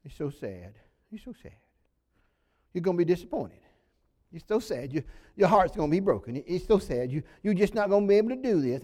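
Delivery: mock pitying elder, mostly fast; discouraging elder. Preacher mimicking older believers discouraging you, mock pity. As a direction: lay the gloomy sympathy on thick. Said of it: "People who are older than you in the faith may say".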